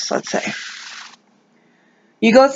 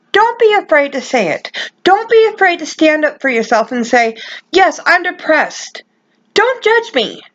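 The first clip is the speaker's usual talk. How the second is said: raised, urgent, pleading voice; higher, heated passionate appeal; passionate plea; 3 semitones higher than usual. Real, not acted. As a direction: plead hard with real feeling, near anger. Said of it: "I know I sound like I'm angry".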